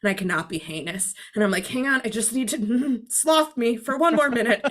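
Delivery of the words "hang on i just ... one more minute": giggly plea. Retold or imitated. Asks for more sloth time.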